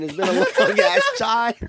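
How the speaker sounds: can't get the line out for laughing; cracking up mid-quote; laughing through it. Real, not acted. Laughing while reading out text.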